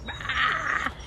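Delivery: mock "aah" of aggravation; negative outburst. Vlogger mimicking going into the negative, mock angry cry. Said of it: "go into the negative".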